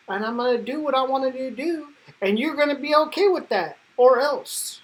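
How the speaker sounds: building defiant threat. Retold or imitated. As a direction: push it up into a cocky warning. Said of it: "Cyclops is like".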